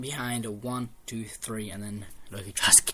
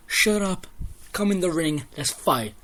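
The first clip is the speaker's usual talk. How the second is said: higher, louder retold challenge; mock challenge; 5 semitones higher, 4 dB louder, slower than usual. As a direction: snap back at him and call him in. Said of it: "Loki goes".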